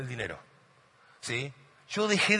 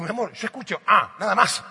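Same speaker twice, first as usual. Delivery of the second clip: higher, baffled protest to his wife; exasperated husband; 5 semitones higher, 4 dB louder than usual. Retold or imitated. Husband to wife over the crying baby, baffled. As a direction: plead that all he hears is ah. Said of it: "Yo digo".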